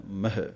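ਮਹਿ with a light half-i ending, not ਮਹੇ; careful pronunciation. Shown as a demonstration. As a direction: model ਮਹਿ, no full e vowel. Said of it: "ਮਾਮਾ ਹਾਹੇ ਸਿਹਾਰੀ ਹੈ".

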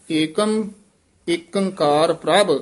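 ਏਕਮ lifted, then a rest before ਏਕ ਓੰਕਾਰ ਪ੍ਰਭ; ਏਕਮ ਉੱਤੇ ਯਮਕ; pause after ਏਕਮ. Shown as a demonstration. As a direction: set ਏਕਮ apart. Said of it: "ਏਕਮ ਤੇ ਯਮਕ ਲਾ ਦੇਣੀ ਹੈ".

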